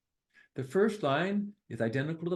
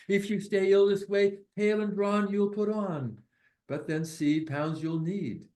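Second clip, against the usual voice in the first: poem reading. Acted. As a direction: bounce through the little rhymes. Reads translated poem aloud.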